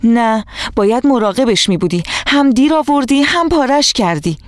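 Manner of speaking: telling her friend off; an angry child's rebuke. A narrator's reading. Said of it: "سبا با صدای بلند گفت".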